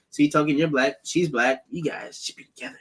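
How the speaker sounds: Cartman impression. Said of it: "or the Cartman thing".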